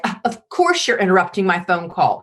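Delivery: put-on eye-rolling teenager. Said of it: "the teenager".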